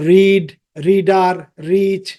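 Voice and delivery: রিড, রিডার, রিচ with tongue-tap r; familiar local r. Shown as a demonstration. Teacher shows the r we know, tapped pronunciation. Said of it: "আমরা জানি আর sound হচ্ছে".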